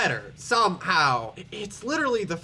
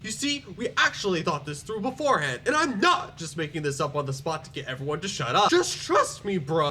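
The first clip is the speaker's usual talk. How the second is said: put-on Bernie Sanders accent. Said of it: "I gave Tadashi Iizuka the Bernie Sanders accent".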